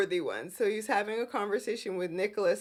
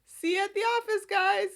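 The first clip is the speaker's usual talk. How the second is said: much higher and fast, chirpy sign-off; breezy goodbye; 10 semitones higher, 3 dB louder, faster than usual. Retold or imitated. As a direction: toss it off brightly, x1.6 pace. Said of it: "all of a sudden he's like".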